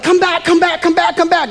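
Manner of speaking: put-on high, wailing little kid calling after a parent; a child calling its parent to come back; crying child. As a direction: call out like a toddler in tears. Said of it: "And so they're like".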